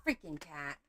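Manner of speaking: ordinary talk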